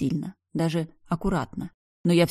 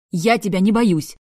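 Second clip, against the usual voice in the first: louder, higher defiant cry; exclaiming; 4 semitones higher, 7 dB louder than usual. A narrator's reading. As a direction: shout defiance she doesn't feel. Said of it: "воскликнула я".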